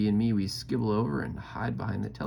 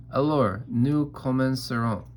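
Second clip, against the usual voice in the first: tutor voice; 4 semitones higher, 5 dB louder than usual. Retold or imitated. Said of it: "Here's what makes Philip angry".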